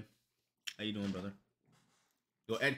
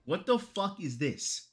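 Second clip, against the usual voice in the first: slow stunned disbelief; 4 semitones higher, slower than usual. Real, not acted. Stunned by character.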